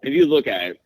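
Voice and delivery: talking around a piece of gum; chewing gum. Real, not acted. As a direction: mouth full of gum. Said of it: "Are you eating?".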